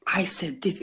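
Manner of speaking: high-pitched amused recollection; amused realization. Retold or imitated. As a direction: react to your old words, tickled. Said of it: "It's funny".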